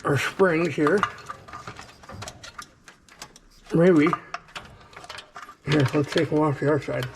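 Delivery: talking around a flashlight; flashlight in mouth. Real, not acted. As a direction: mouth propped open by flashlight. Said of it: "I got a flashlight in my mouth".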